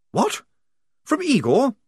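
posh officer voice; lightly voiced upper-class officer; Blouse voice. A narrator's reading.

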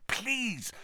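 urgent hushed plea; frantic whisper. A narrator's reading. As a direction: whisper it in a panic. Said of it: "Harry whispered frantically".

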